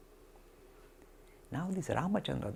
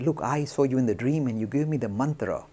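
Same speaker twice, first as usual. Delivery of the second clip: excited retelling; 6 dB louder than usual. Retold or imitated. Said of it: "he went rushing to Ramakrishna".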